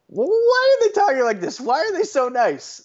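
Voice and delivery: high, squeaky exasperated questions; mock flipping out. Reacting to Fargo's accents, a high mock freakout. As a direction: squeal it like you're losing your mind. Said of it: "flipping out every five minutes".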